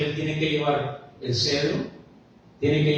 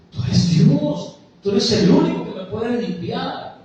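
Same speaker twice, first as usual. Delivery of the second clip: imploring plea; 5 semitones higher, 4 dB louder than usual. Retold or imitated. Leper pleading to Jesus.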